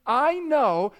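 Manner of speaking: imploring God. Acted. Preacher voices God speaking to those who hate him, lightly imploring. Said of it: "This is God saying".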